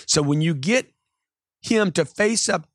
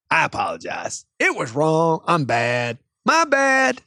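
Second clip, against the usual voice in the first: hammed-up placating. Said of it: "stay rational".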